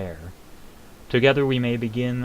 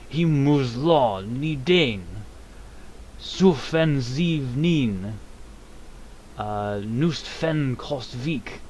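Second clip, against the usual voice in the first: very slow, higher, drawn-out dragon chant; dragon voice in Dragon tongue; 4 semitones higher, much slower than usual. Acted. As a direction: intone the dragon words slowly. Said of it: "dragon tongue up here".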